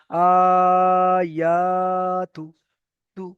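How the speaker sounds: long আ and ইয়া, short তু; short final syllable. Shown as a demonstration. Teacher showing students that তু is not held. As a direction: hold আ and ইয়া, release তু at once. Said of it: "তুটাকে আমি একদম ধরলাম না".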